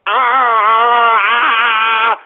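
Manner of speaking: short mocking "ah" grunts; mock groans. Host imitates the scientist's real voice, mocking grunts. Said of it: "it sounds something like this".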